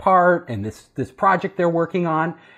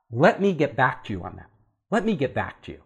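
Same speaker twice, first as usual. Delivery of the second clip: soft, hesitant stalling; quietly buying time, unsure; nervous stall; 5 semitones lower, 5 dB quieter than usual. Retold or imitated. Paralyzed new hire stalling the boss, quiet and hesitant.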